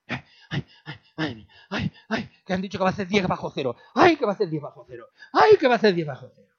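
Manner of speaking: quick, fretting little moan about the forecast; fretful complainer. Retold or imitated. Pastor mimics people fretting over a forecast of ten below, a quick light moan. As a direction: rattle off the worry quickly.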